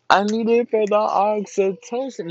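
high, loud lyric quote; worked-up fan quoting the lyric; excited lyric outburst. Retold or imitated. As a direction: belt the line out excitedly. Acts out singing the switched-up lyric.

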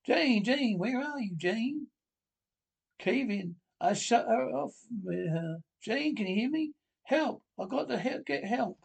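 high, frantic calls for Jane; panicked calling. Acted. Husband calls for trapped wife after cave-in, panicked. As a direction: yell for her in rising panic.

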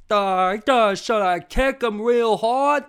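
very loud, high dopey goon; slow, eager dumb-brute voice; dim-witted henchman. Acted. Ostrich goon asking the little monkey, loud dopey voice. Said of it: "They're like one of those".

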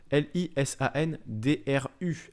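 slow letter-by-letter spelling; spelled out. Shown as a demonstration. Host spelling their first name for viewers, spelled out slowly. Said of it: "mon prénom".

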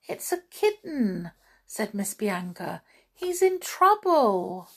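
animated storybook narration with character voices; story reading to children. A narrator's reading. Reader telling children about two mice, expressive storytelling. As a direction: read it to little ones, lively and deliberate.

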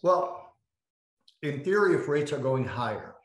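eating a grape while talking; mouth full. Real, not acted. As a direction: talk through a mouthful. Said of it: "Sorry, I'm eating a grape".

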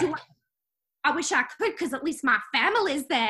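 a put-on English accent, nagging wife; British accent. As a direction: play an annoyed English housewife with a light British accent. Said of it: "I like your accent".

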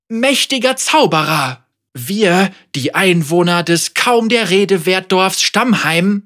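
hohe, zögernde Bittstellerin; unterwürfige Anführerin. Acted. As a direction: vorsichtig schmeicheln. Margot speaks. (zögerlich unterwürfig)

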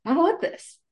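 high, squeaky cry of refusal; mock recoil. Holding the snake far away and squealing, mock scared. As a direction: recoil in mock horror, pitch jumping up.

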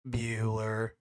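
low, toneless classroom drone; monotone teacher. Acted. Teacher repeating a student's name at roll call, monotone. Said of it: "Like monotone".

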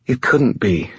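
high, frightened disbelief; trembling. A narrator's reading. Shaken girl doubts what she saw, trembling. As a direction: pitch it high, resisting the thought. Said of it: "her trembling growing more pronounced".

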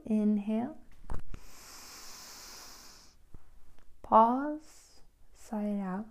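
unhurried instructions with long pauses; calm, spaced-out meditation leading; guided meditation. Real, not acted. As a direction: guide a listener gently into relaxation.

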